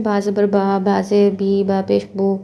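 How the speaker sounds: spell-out बा ज़बर बा, बा ज़ेर बी, बा पेश बू with the letter named "baa"; pure aa, ee, oo in बा, बी, बू; Arabic vowel reading. Shown as a demonstration. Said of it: "अरबी में जो हमारा पढ़ने का अंदाज़". (बा, बी, बू अरबी अंदाज़ में)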